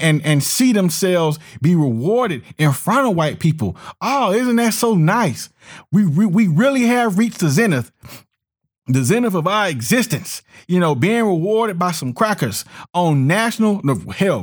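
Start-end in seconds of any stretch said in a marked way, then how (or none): 4.0-10.4 sarcastic. Acted. Sarcastic praise of Oscars.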